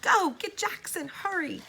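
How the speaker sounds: high, loud, urgent order; urgent shout. A narrator's reading. Elizabeth urgently sends Freddie for help, high and loud. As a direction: shout to send him running.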